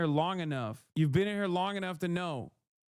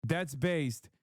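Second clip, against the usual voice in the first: mock chatter drawl; much slower than usual. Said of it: "He's like".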